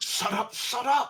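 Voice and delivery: high-pitched yelled outburst, repeated. Explaining a conspiracy to someone who doubts it, yelling. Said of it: "I didn't mean to yell at you like that".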